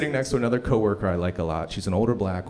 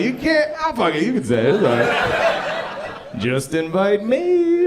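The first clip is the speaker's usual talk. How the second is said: mock pleading; 10 semitones higher, 5 dB louder, slower than usual. Comic begging.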